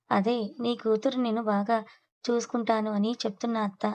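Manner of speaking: slow, teasingly stretched words; drawn out. Acted. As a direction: drag it out to needle the aunt. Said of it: "అని సాగతీస్తూ చెప్తాడు". (సాగదీస్తూ వెటకారంగా)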